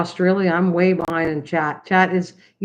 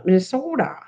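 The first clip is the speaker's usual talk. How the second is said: lightly imitated Minnesotan accent, pitch jumping up; Minnesota accent. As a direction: say Minnesota as the locals do, a little exaggerated. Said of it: "They, they pronounce the".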